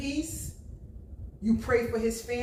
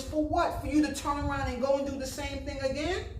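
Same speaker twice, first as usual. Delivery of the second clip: exasperated question; 5 semitones higher than usual. Real, not acted.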